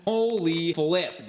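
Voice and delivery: drawn-out amazed exclaim; stunned. Real, not acted. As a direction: say it floored and slow. Stunned at height news.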